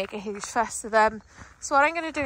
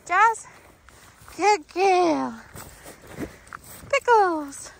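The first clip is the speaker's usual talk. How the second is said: higher, upbeat calls to dogs; excited recall and praise; 7 semitones higher, much slower than usual. Real, not acted. Trainer calls and rewards dogs, excited. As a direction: call and praise in a lifted voice.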